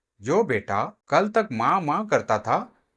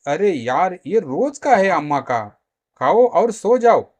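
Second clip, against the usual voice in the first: raised, exasperated brush-off; irritated dismissal; 3 semitones higher, 5 dB louder than usual. Acted. Husband brushes off wife's worry.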